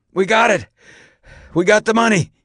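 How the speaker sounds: high, loud, breathless report; raspy, excited yell; raspy gasped shout. A narrator's reading. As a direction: gasp out the news over the radio. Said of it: "he gasped".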